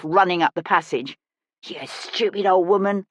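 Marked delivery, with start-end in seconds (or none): 1.6-3.1 mildly snarled insult; a touch of a bully's snarl. Acted. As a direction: spit the insult at her, restrained. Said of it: "snarled Big Teeth".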